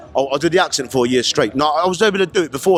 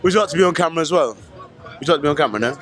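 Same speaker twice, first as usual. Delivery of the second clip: London accent put on for strangers; fake British accent. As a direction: chat them up in a London accent. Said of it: "doing the accent".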